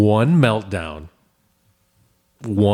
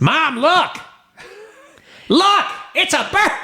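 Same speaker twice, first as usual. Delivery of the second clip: put-on very high squealing kid voice; excited child. Child showing mom the bird, excited squeal. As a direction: imitate a little kid pointing something out, squeaky and thrilled.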